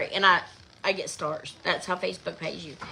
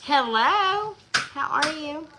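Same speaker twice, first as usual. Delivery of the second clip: high singsong hello; high sweet greeting; 9 semitones higher, 5 dB louder, slower than usual. Real, not acted.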